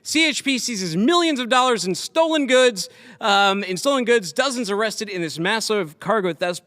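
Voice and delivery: animated headline-reading voice; news read. Real, not acted. Host reading a cargo theft story to his guest, animated news read. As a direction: read out the crime report with punched key words.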